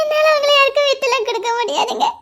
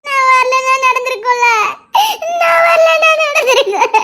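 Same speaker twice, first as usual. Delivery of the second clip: crying. Acted. Wife sobbing, blaming herself.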